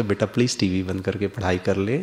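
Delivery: put-on soft, smiling plea to a child; quiet, sweet, smiling ask; smiling request. Shown as a demonstration. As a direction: gently coax the son with a smile. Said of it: "जब आप मुस्कुरा के कहोगे".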